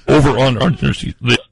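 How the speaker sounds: mouth full. Real, not acted. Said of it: "after eating a, a large meal".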